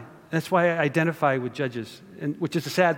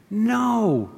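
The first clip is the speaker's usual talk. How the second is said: high, firm no from God; 7 semitones higher than usual. Pretend. Preacher voicing God's refusal, firm. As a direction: refuse them flatly.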